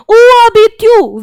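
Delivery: Où habites-tu spoken very slowly and clearly; slow French demo. Shown as a demonstration. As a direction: model Où habites-tu for learners. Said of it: "teaching French phrase".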